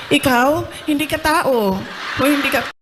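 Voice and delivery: mock stern father line through laughter; laughing quote of father. Daughter recalls father's words, laughing. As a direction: laugh while quoting dad's verdict. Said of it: "sinasabihan ako ng tatay ko".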